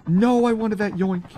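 high, whining lament; disappointed wail. Real, not acted. Streamer who just missed a kill, disappointed wail. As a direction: wail it with the pitch jumped up. Kill lost right before him.

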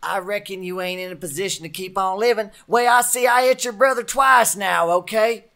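high, loud shouted threat. Acted. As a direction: shout him down. Marshal threatens outlaw back.

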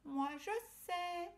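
high, slow little ladybug voice; squeaky small insect, knowing. Acted. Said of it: "dit Belle la coccinelle".

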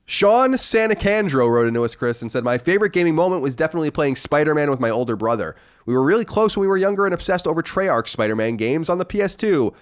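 read-aloud voice, pitched a little up; reading a listener letter. Acted. Host reads a listener's letter to co-host, read-aloud voice. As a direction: read the letter out in an even presenter's cadence.

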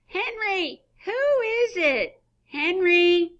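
high woman's voice calling from afar; distant woman calling. Acted. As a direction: call from another room. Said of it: "Woman's voice from the distance".

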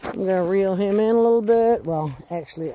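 normal talking voice

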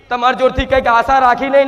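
ordinary delivery

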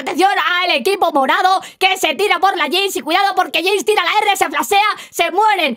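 brisk, keyed-up esports caster; animated play-by-play. Acted. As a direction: announce the action with energy. Live play-by-play of a clip. (narración deportiva animada)

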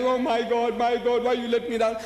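mock a dying man's plea; dramatizing. Mocking a man who says he's dying, dramatizing. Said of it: "putting up an act, dramatizing himself".

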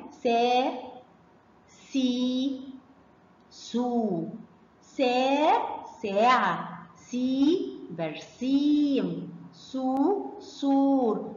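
"سا", "سي", "سو" each held out; slow phonics drill from "سا" to "سور"; long vowels. Shown as a demonstration. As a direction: recite each long sound, then its word, stretching "ساعة", "برسيم", "سور". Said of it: "سامعين الصوت الطويل إزاي".

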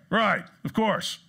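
slow, high emphatic agreement; mock-emphatic answer for the audience. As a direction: draw out a firm, emphatic yes. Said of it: "you said emphatically".

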